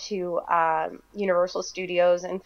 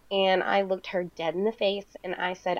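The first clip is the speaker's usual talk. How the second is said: usual speaking voice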